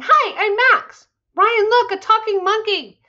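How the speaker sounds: high excited monkey character; chirpy monkey voice. Acted. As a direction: play a bouncy talking monkey. Talking monkey introduces himself.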